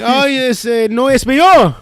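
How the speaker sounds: high, laughing mock coworker; imitating coworker through laughter; Hispanic coworker. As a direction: tease him that he knows no Spanish. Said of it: "He's like".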